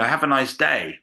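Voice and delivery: bright American greeting; chirpy service voice; cheerful American. Retold or imitated. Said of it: "your default mode is".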